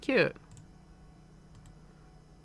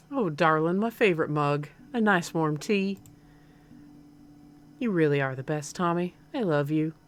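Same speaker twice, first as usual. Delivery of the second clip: lightly Southern mother, touched; slightly southern accent. Acted. Mom thanking her son for tea, slightly southern accent. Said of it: "like, a slightly southern accent".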